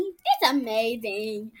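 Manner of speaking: breathy awed whisper. Acted. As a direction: whisper it in wonder. Awed whisper about school.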